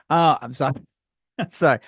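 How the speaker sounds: real giggles breaking into an apology; giggly. Real, not acted. Apologising to viewers mid-joke, giggling. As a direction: apologise while fighting off the giggles. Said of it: "I have the giggles today".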